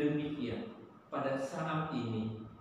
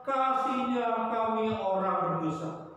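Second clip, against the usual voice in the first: wailing plea; 7 semitones higher than usual. Acted. The weeping city crying to God for mercy, high wail. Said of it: "Di pojok sana juga".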